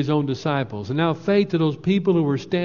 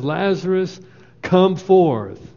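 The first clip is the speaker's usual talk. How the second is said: Lazarus called higher and louder, building to a loud come forth; loud command; 4 semitones higher, 4 dB louder, slower than usual. Acted. Jesus calls dead Lazarus out of the tomb, loud commanding cry. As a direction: call him out of the tomb with full voice. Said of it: "But he says".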